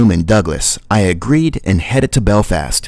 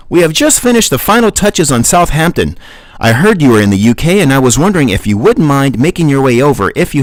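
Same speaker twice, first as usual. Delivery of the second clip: Lars on voicemail; 6 semitones higher than usual. Acted. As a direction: play Lars leaving a chipper voicemail. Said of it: "that was not Lars's accent".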